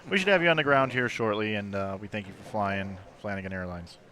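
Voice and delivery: airplane pilot voice. Pretend. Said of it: "or airplane pilot voice".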